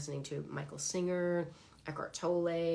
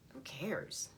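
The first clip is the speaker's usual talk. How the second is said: breathy whispered shrug; 2 semitones lower, 6 dB quieter than usual. Real, not acted. To herself, brushing off her ego, whispered. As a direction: let it go under your breath. Dismissing her own need to be right.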